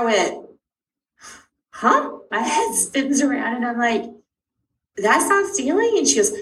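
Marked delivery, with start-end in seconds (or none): 1.7-2.2 very high startled huh; a baffled yelp of a question; stunned huh. Retold or imitated. Mother hearing it's not stealing, stunned huh. Neurologist says it's hoarding. 5.0-6.0 high, slow, disbelieving; disbelieving question. Retold or imitated. Mother questioning the neurologist, slow disbelief.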